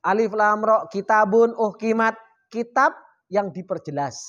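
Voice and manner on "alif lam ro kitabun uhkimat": slow reading. Shown as a demonstration. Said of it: "Jadi bacanya gimana?".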